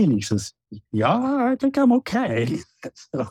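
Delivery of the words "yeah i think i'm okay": put-on drunk pilot. Drunk pilot fallen off ladder.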